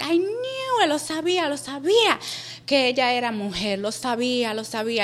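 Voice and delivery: high wail easing down as it repeats; mock tearful lament, sinking back; imitated crying. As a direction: act out a tearful mother, starting high. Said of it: "And she's crying".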